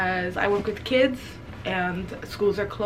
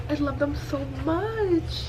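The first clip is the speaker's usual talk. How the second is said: tender adoring sigh; 5 semitones higher, slower than usual. Real, not acted. Reader melting over the couple, slow and tender. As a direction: melt over the couple, slowly. After gushing, softer.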